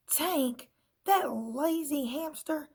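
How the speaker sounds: high scornful scoff at the lazy hamster. A narrator's reading. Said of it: "said the little red pen".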